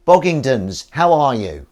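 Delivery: high, loud voice he talks to his cat in. Pretend. Greeting the viewer Boggingdons in his cat voice, high and loud. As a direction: greet the chat like a pet cat, high and bright. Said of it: "that's the cat voice".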